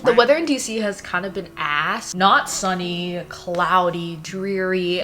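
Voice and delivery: ordinary delivery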